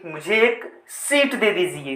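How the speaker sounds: सीट held long, seet, inside the request; long vowel. Shown as a demonstration. Teacher voicing someone asking for a seat, long ee in सीट. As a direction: draw out the ee of सीट. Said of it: "सीट बोलने में ज़्यादा sound देना पड़".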